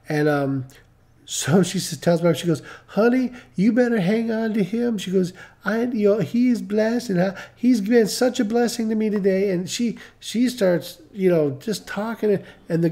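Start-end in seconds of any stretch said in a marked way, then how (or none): 2.9-5.0 higher-pitched gushing, as imitated praise; lightly acted gushing woman; effusive customer. 5.6-9.5 higher-pitched gushing, as imitated praise; lightly acted gushing woman; effusive customer.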